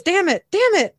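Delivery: high, loud, lightly comic cursing; acted exasperated cursing. Garth has dropped the phone, acted flustered cursing. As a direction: curse in a fluster, pitch jumping up.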